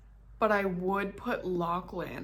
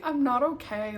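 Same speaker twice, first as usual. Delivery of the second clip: real crying, words pushed out higher; teary outburst; 5 semitones higher, 5 dB louder than usual. Real, not acted. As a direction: voice lifting and breaking through tears. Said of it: "I shouldn't be crying".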